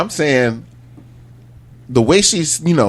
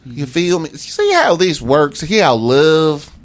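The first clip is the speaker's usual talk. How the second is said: Florida cracker voice; 4 semitones higher, slower than usual. Pretend. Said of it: "Florida cracker voice".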